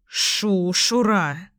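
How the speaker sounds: a light hiss of an angry gander. A narrator's reading. Gander hissing at the jackdaw, light hiss. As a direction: hiss it like a goose guarding its young. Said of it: "шипит гусак".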